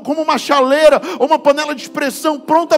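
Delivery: fiery preaching. Acted. Pastor preaches to the congregation about men crying, full force. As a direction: preach it out to the whole church.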